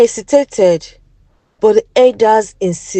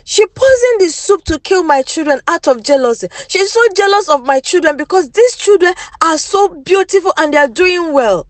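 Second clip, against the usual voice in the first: higher, lightly voiced angry accusation; 6 semitones higher, faster than usual. Jealous wife accusing rival before husband, mildly angry. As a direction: blame her, a touch of fury. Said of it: "she screamed".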